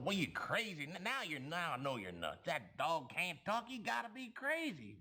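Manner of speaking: scoffing farmer. Acted. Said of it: "The farmer goes".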